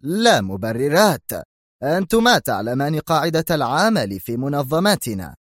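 enraged boss; agitated outburst. Acted. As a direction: lay down the rule furiously. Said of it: "قاطعه دون كورليوني في هياج".

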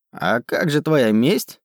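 slow, dry teasing question; sarcastic. Acted. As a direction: needle him with a joke. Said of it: "саркастически поинтересовался Варфол".

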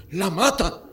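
high, loud mock alarm; abuelo alarmado. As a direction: cry out as a scandalized grandpa. Grandfather alarmed at the film. (exclamación aguda de abuelo alarmado)

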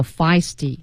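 "feisty" said as FYE-stee; "feisty" rhyming with "heist-y"; alternative pronunciation. Shown as a demonstration. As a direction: say "feisty" with a long I. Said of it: "它还有一个读音叫".

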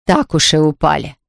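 aunt doubting her niece's luck, scoffing; skeptical snort. A narrator's reading. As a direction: scoff at it mildly. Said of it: "снова хмыкнула миссис Чилтон".

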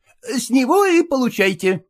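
ordinary delivery, nothing marked

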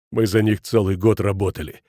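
understated, bitter tremor; trembling voice. A narrator's reading. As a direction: let the grievance tremble slightly. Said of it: "дрожащим голосом продолжал Шмидт". (с лёгкой дрожью в голосе)

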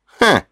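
high, clipped "ha"; brief amused scoff; short scoffing laugh. A narrator's reading. Shaman reacts to the traveller's reply, scoffing laugh. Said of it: "усмехнулся он".

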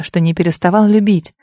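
ordinary delivery, nothing marked

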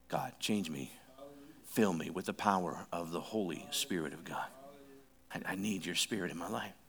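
low, soft prayerful voice; hushed prayer. Acted. Pastor praying over the congregation, softly. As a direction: bring it down to a prayer.

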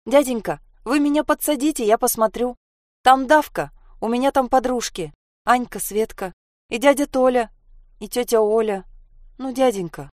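put-on high, eager child begging to be lifted; pleading little girl. Little Sasha begs the young man to lift her up, pleading.

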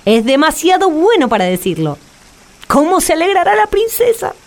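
high, simple-minded fool; high silly Juan voice. Acted. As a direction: play the cheerful village fool. Juan delighted.

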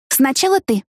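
high, teasing demand; playful demand. Acted. Heroine challenging her boyfriend, high teasing demand. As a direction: insist he goes first. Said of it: "потребовала я".

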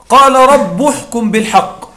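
رب said with a final "u" as "rabbu", slowly; slow read of قال رب احكم بالحق with "rabbu"; damma on rab, slow. Shown as a demonstration. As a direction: recite with رب ending in "u". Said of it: "بالضم".

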